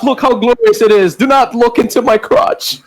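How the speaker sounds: lilting, half-sung diva boast; sing-song self-praise as the goddess; mock goddess.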